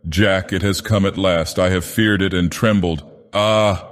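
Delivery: strained, anguished confession. Acted. Sylvia confesses her past to Jack, strained and pleading. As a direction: plead through rising anguish. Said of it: "a voice changed and strained".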